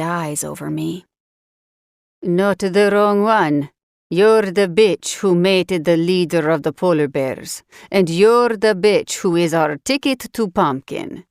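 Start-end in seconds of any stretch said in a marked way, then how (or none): 2.2-11.2 a cold kidnapper talking down to his prisoner; sneering captor. Acted.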